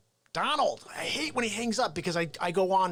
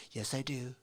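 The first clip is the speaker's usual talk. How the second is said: Donald Trump. Acted. Comic as Trump bragging about the spotlight, boastful impression. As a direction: stretch the key words, relishing the attention. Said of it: "I like to do a Trump impression".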